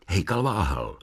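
plain reading voice

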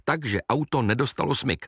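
plain reading voice

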